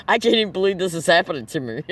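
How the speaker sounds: a laugh that breaks through the words; laughing at something that isn't funny; laughing in disbelief. Real, not acted. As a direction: talk through real laughter. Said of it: "I don't know why I'm laughing".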